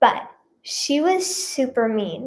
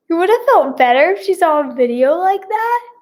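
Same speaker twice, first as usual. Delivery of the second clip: incredulous echo; 5 semitones higher, 3 dB louder than usual. Real, not acted. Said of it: "incredulous echo".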